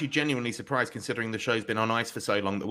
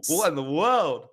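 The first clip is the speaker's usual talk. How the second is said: high, drawn-out whoas into a stunned question; mock astonishment; 5 semitones higher, slower than usual. Cohost opens the show with mock shock, high hammed-up whoas. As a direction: act floored, ham up the surprise.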